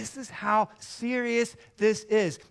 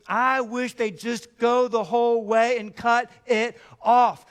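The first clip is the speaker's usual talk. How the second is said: louder, hammer the word off; loud punchline; 6 dB louder than usual. Real, not acted. Preacher landing the punchline loudly to the church. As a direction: build and land it hard.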